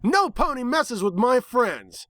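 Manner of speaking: high, slow, fierce heroic voice; brash tomboy hero. A narrator's reading. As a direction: defend your friends with swagger. Rainbow Dash defends friends.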